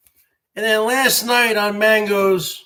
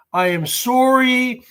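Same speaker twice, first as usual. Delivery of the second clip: mock Canadian. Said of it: "but I'm from Canada".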